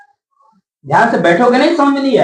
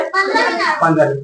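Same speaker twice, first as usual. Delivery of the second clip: पन्द्रह मिनट stretched slow and high; slow, drawn out; 5 semitones higher, 4 dB quieter, slower than usual. Shown as a demonstration. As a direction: draw out पन्द्रह मिनट slowly for the class. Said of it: "कितना बाकी है?". (धीरे खींचकर पन्द्रह मिनट)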